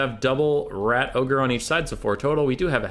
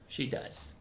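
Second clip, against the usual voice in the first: whispering; 13 dB quieter than usual. Real, not acted. Answer for the dog.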